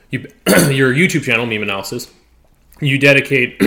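throat catching on chocolate, clearing it; choking on chocolate. Real, not acted. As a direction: talk through a bit of choking on chocolate. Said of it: "sorry, I'm choking on this chocolate".

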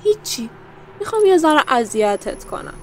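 high sing-song nothing; coy teasing. Acted. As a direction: tease him with an innocent nothing. Villain teasing.

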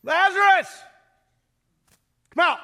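huge, high, ringing call out; loud call. Acted. Jesus calls Lazarus out of the tomb, shouting loud and high. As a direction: call him out of the tomb at full voice. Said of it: "called in a loud voice".

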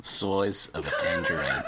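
slow mock-English drawl; Michael Caine. Co-host trying the celebrity impression, slow mock-English. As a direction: stretch it out in a silly English accent. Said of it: "We just both do Michael Caine impressions".

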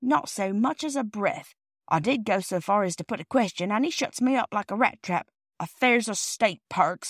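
mildly huffy cockney porter; a touch of wounded grievance; lightly voiced aggrieved porter. Porter complaining to the children, mildly aggrieved.

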